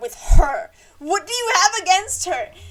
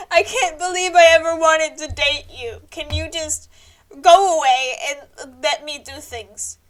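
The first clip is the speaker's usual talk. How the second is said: mock tearful; 7 dB louder than usual. Mary telling Twyla to go, mock tearful. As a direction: push her away between sobs.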